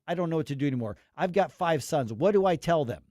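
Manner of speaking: retold yelling, held back until the last question rises; mild mock yell. Host quoting a woman on the news, half-hearted yelling. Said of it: "she's screaming and yelling".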